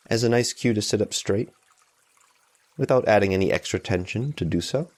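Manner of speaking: calm, even meditation guide with long pauses; unhurried guidance, leaving room between phrases; guided meditation. Real, not acted. Meditation teacher easing listeners into noticing tension and support, calm guided meditation.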